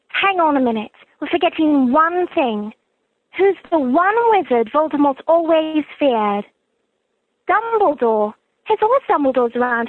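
British-accented schoolgirl impression; earnest British girl reassuring her friend; Hermione Granger. Telling Harry he's safe around Dumbledore, British Hermione impression. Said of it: "I will be impersonating the character of Hermione Granger".

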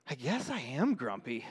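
understated, resigned storybook admission; resigned sigh. Acted. Jim finally admits his mood to himself, mildly sighed. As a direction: let it out with a mild sigh. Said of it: "Jim sighed".

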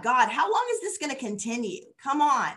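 mildly exasperated questioning of God; impatient plea. Acted. David questioning God on his timing, impatient. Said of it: "experience that impatience".

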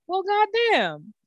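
high, stretched-out amazement; slow amazed drawl. Retold or imitated. Host reacting to her own viral video, slow and amazed. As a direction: let it sink in slowly. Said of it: "So I'm like".

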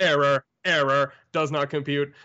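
robot error message. Pretend. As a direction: glitch out like a computer. Jokey robot malfunction.

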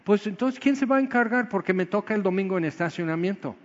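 hammed-up worried church volunteer; whiny complainer. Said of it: "No dijo".

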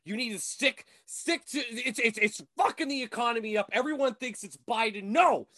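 hammed-up outraged tirade, punching key words; mock nationalist rant. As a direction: rant like a pretend fed-up patriot. Mock rant against foreign actors.

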